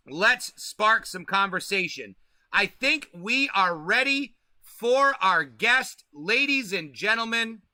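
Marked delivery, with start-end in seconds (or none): 2.5-7.6 slow, drawn-out announcer build-up to the name; stretched, showman welcome for the guest; hype guest introduction. Acted. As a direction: roll out the intro like a ring announcer. Host introduces guest on stream.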